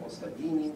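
"Ostavini" accented on a later syllable; stress off first syllable. Shown as a demonstration. Lecturer offering another rejected accent, "Ostavini" stressed later in the word. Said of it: "But it's not".

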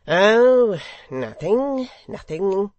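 high, loud, airy dismissal; friendly secretary. A narrator's reading. Secretary answering the hangman with a nod, friendly. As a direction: wave the question away in a high voice. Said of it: "with a friendly nod".

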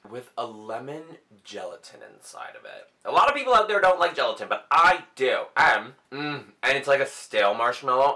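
words muffled by chewing; mouth full, chewing. Real, not acted. Seen 0: Bites candy at 3.2s, then chews and grimaces while talking.

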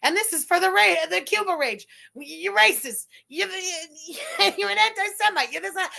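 high, loud jeering taunts at her; mock screaming insults. Chasing a streamer through the grocery store, mock screaming. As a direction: yell her worst moments across the store. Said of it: "screaming all her most disgusting moments".

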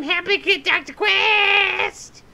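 slow, pleading Haji imitation; imitating Haji. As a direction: beg for help like the cartoon kid. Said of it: "You have to sound like Haji".

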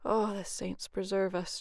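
slow, mock-pained whine; whining. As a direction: moan it like a lazy man dodging work. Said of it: "Jamie would whine".

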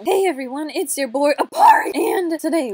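mock vlogger greeting to fans; Apari. Imitates Apari greeting his viewers.

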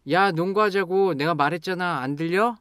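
loud, exasperated insistence; angry. Shown as a demonstration. To a friend not listening, angry. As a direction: raise your voice and demand to be heard. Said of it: "Then you get angry and say".

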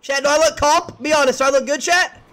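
angling for praise from viewers; fishing for compliments. Real, not acted. Asking chat about his outfit.

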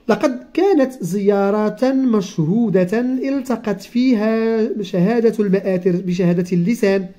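slow, careful reading of a textbook passage; reading aloud. Acted. Teacher reading the lesson text slowly to the child. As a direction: read each word out slowly for the pupil.

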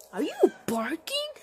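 whisper. Acted. Other side asks in whisper.

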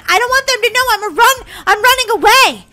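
playful panic. Pretend. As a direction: blurt it out, mock alarmed. Panics at police station.

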